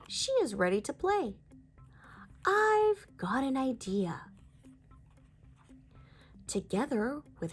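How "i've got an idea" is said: put-on slow eager whisper of a little girl; whispered idea. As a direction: breathe it like a secret plan. Bluey voiced in read-aloud story.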